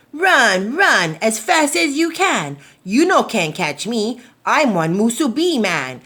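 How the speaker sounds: cheeky taunt. Acted. Musubi man taunting the mongoose, loud singsong. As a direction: brag he can't be caught. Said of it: "laughed at the mongoose".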